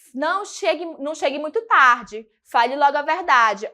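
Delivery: stern tone. Shown as a demonstration. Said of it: "Olha o tom, é diferente".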